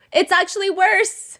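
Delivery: high, drawn-out mock exclamation; retold exasperation. Podcaster answering commenters who think he's innocent, exasperated. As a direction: say it high and stretched in exasperated disbelief. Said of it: "And I'm like".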